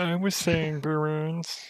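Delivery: slow, badly faked cartoon voice; Mole Man. Co-host quoting the boo joke, horrible cartoon impression. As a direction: draw it out in a poor impression. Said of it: "that's a horrible Mole Man impression".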